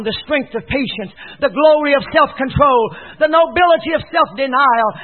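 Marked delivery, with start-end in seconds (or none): 1.4-4.9 louder, lifted sermon cadence; high, forceful preaching. Real, not acted. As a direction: proclaim each virtue with force.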